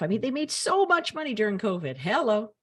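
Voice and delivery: indignant high voice; worked up. Real, not acted. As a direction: get worked up and let the pitch climb. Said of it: "using my high voice".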